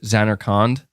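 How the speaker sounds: Zanarkand ending in "kond", ZAN-er-kond; questioning "Zanarkand", as ZAN-er-kond; alternative pronunciation. Shown as a demonstration. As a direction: try Zanarkand with an open ah in the last syllable. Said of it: "seeing so many different ways".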